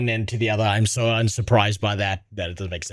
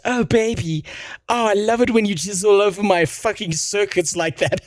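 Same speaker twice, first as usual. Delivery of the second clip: sexy robot voice; 8 semitones higher than usual. Retold or imitated. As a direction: ham up a lusty robot lover. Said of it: "the robot goes".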